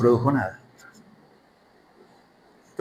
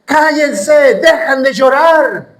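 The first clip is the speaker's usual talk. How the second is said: Nehemías callando al pueblo; 10 semitones higher, 4 dB louder, much slower than usual. Retold or imitated. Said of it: "eh, decía".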